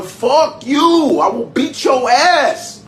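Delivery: high, loud mock yell; imitated furious threat. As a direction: yell it like an enraged man threatening police. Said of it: "This white dude is literally going".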